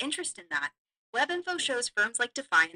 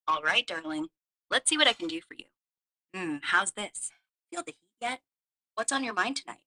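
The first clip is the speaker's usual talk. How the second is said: sexy voice; 3 dB louder than usual. Pretend. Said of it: "can you use a sexy accent?".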